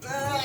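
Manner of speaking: grunting with effort. Real, not acted. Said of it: "excuse me for grunting".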